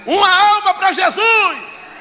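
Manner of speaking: grito agudo e arrastado, bem esticado; grito imitado. Retold or imitated. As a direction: anuncie gritando para a igreja inteira, alongando as palavras. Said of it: "gritou lá atrás". (grito encenado, agudo e prolongado)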